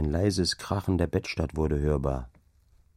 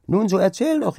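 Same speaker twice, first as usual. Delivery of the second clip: high, louder eager urging; eager calling; 13 semitones higher, 5 dB louder than usual. Acted. Maids urging Angrete to tell, high and eager. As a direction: press her to tell, impatient. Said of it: "riefen die Dirnen wieder".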